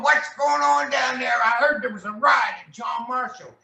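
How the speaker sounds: high, shouted alarm; imitating the superintendent. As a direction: shout it up the phone like a panicked official. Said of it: "He's going".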